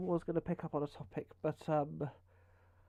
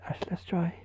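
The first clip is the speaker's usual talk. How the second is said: whispering. Shown as a demonstration. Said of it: "I'll try my sleepy voice".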